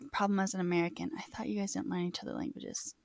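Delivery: whispered reading. Real, not acted. Reading chat question aloud.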